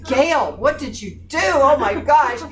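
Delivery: a wife half-yelling at her husband in alarm; retold yell. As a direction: call him out like a startled wife. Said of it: "Mother was yelling at him".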